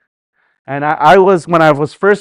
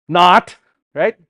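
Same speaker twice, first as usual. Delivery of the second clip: Wayne's World not; 2 semitones higher, 4 dB louder than usual. Retold or imitated. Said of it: "watched Wayne's World".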